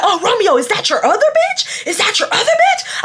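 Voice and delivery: high mocking taunt through laughter; mock him while laughing; high laughing taunt aimed at Romeo.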